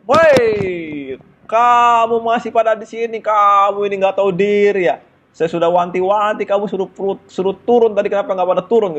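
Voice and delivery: high, loud furious scolding; angry conductor. Retold or imitated. Conductor yelling at students still on the train, furious shout. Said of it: "Marah tuh, marah besar kan".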